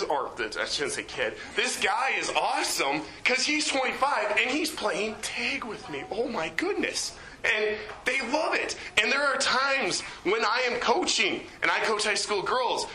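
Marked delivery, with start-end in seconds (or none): 1.5-7.1 lightly voiced kids, higher and amazed; imitating thrilled campers, pitch up; excited kids. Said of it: "the kids are like".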